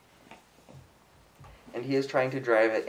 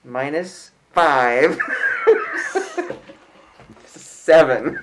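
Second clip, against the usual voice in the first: loud, drawn-out words breaking into laughter; laughing; 5 semitones higher, 5 dB louder, much slower than usual. Real, not acted. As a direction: laugh helplessly as you call it out. Laughing at a bad roll.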